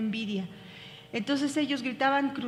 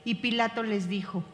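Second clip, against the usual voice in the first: steady, measured Bible reading; calm, even scripture reading voice. Acted. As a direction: read the passage aloud to the class. Reads the Passion passage aloud.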